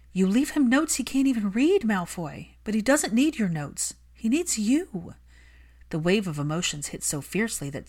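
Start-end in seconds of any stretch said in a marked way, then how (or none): 0.1-5.1 higher, louder furious plea; angry Hermione. Acted. Hermione scolding Malfoy for neglecting his son, heated. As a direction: defend the lonely child fiercely.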